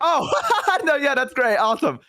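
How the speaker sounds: high-pitched, overbright cover-up; acted fake cheer. Boyfriend told it was only mailman, high fake cheer.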